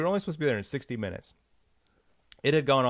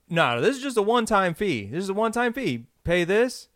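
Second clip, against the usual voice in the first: higher, pushy pitchman insistence; salesman voice; 5 semitones higher than usual. Retold or imitated. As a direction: insist like a slick seller.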